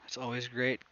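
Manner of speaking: hiccup breaking the words; holding back a hiccup; suppressing hiccups. Real, not acted. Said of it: "Oh, excuse me, hiccups".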